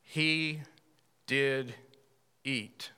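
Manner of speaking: "He", "did", "eat" each set apart with pauses, fading at the end; weighty pause. Shown as a demonstration. Preacher lingering on the three words, slow and weighty. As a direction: let each word land alone. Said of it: "those three words".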